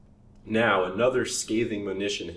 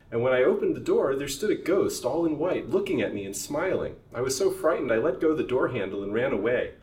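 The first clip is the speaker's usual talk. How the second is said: higher, louder frightened account; trembling; 5 semitones higher, 5 dB louder than usual. Acted. Servant tells master of the ghost, frightened. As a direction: recount the ghost with fear.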